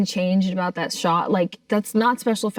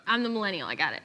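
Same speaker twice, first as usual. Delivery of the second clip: laughing; 6 dB quieter, faster than usual. Real, not acted. Laughing at Jimmy's bit.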